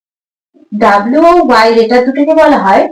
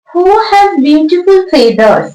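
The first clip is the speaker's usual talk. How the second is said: slow dictation; 5 semitones higher, much slower than usual. Shown as a demonstration. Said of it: "teacher reads the question aloud".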